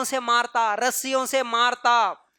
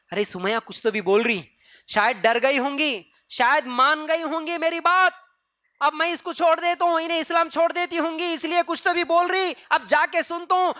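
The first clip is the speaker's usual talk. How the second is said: gloating glee; 4 semitones higher than usual. Retold or imitated. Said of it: "خوشی سے گیا".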